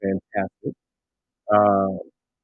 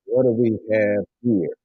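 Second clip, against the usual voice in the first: ordinary talk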